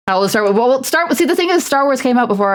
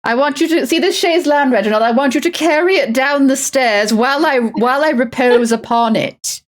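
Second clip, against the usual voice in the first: imperious plummy grande dame; 4 semitones higher than usual. Pretend. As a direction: demand the impossible lazily. Spoiled noble ordering butler.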